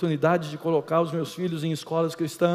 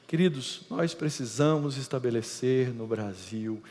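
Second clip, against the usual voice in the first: slow, much softer, lower, ending in a whisper; hushed appeal; 6 semitones lower, 8 dB quieter than usual. Real, not acted. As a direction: plead quietly to the congregation. Apelo final sussurrado. (apelo lento terminando em sussurro)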